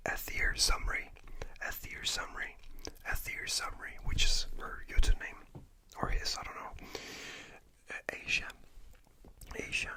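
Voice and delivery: soft unvoiced whisper, close to the mic; ASMR whisper. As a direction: whisper good night gently, like ASMR.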